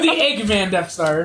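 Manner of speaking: laughing. Real, not acted. Laughing at the joke.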